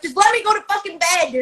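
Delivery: high, pleading whine to be let off to bed; whiny plea. Retold or imitated. Retelling begging her own mind to let her sleep, high whine. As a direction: beg like an exhausted kid.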